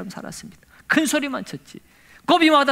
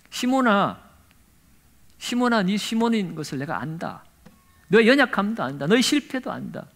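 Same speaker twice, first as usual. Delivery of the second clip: tender Jesus; 3 semitones lower, 3 dB quieter than usual. Acted. Jesus tenderly addressing Simon.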